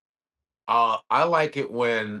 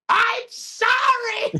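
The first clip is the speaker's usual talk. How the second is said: mock sobbing apology; 3 dB louder, much slower than usual. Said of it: "the fucking punchline is like".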